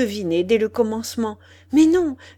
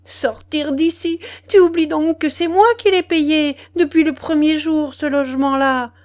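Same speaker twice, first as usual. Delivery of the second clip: loud, high-pitched furious tirade; enraged outburst at raised pitch; bursting with fury; 5 semitones higher, 7 dB louder than usual. A narrator's reading. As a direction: explode and hurl one accusation after another. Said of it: "elle éclata".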